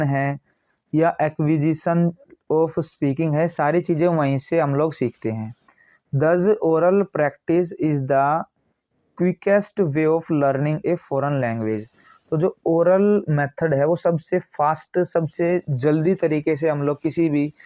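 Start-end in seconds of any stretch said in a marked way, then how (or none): 6.1-11.8 slow, word-by-word dictation reading; steady, spaced reading of a textbook line. Acted. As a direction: read it out like dictation to a class. Reads the English text slowly.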